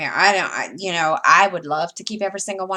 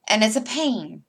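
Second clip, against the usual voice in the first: real southern accent, a little higher; 4 semitones higher, 4 dB louder than usual. Real, not acted. Vlogger griping about searching for floss, southern accent. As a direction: let the southern accent come through. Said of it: "I said with my southern accent".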